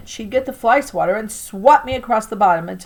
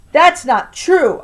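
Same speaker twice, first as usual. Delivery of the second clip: slow, high, loud protest; scream; 8 semitones higher, 8 dB louder, much slower than usual. Acted. Boy protesting to grandma, moderate acted scream. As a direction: cry out in protest, not full scream. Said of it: "I'd scream".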